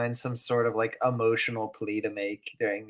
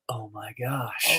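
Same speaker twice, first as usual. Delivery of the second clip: surprised; 3 semitones lower, 7 dB quieter than usual. Retold or imitated. Realization moment.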